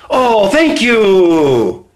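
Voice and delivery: slow, drawn-out falling thanks; mock gratitude. Coach playing the one being motivated, mock grateful. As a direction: gush thanks with exaggerated relief.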